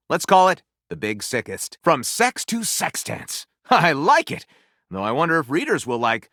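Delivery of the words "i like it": amused, laugh in the voice; chuckling approval; a real little laugh on it. Real, not acted. Laughs at the title.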